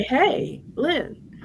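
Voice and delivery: retold hail from across the room; calling across the room. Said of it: "from across the room, like, vocal, like, out loud".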